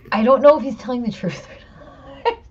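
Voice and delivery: put-on half-panicked doubt about the kid; alarmed disbelief. Mother unsure if her son's button story is true, alarmed. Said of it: "And I was like".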